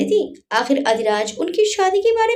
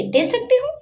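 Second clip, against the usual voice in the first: angry cry; 9 semitones higher than usual. Acted. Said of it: "गुस्से में चिल्लाते हुए बोली".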